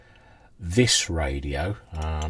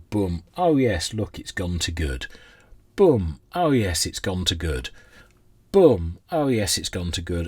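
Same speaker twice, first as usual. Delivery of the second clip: mock delight. To viewers, mocking a dull valve test with hammed-up cheer. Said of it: "sit here and watch me go".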